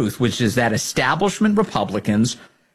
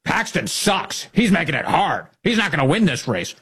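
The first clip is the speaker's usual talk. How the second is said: mock Cornyn quote; 3 semitones higher than usual. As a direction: sneer out the quote, lightly voiced. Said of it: "as you give quotes like".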